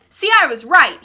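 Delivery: put-on loud, gleeful boy; triumphant shout. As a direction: crow that you were right. Stephen triumphant in story.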